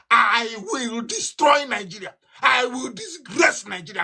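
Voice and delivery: shouted slowly, voice cracking with rage; furious shout. Real, not acted. Activist vowing revenge on Nigeria, crying shout. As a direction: roar the threat, half crying. Defiant vow in fiery speech.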